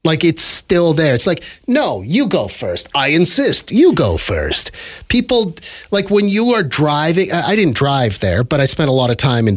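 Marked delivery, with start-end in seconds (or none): 1.7-4.7 mock-courteous Londoner, unhurried; exaggerated politeness. Londoners deferring to each other, exaggerated politeness. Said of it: "politeness has not gone out of style".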